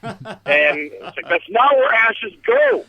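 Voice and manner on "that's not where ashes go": drawn out and higher, scolding; imitating someone laying down a rule, slowly; mock indignant quote. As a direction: draw out the retold complaint. Quoting an argument over sink ashes.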